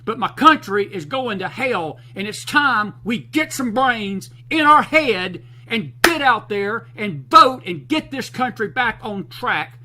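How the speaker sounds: really fired up, pounding it out. Real, not acted. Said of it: "Excuse me for getting fired up".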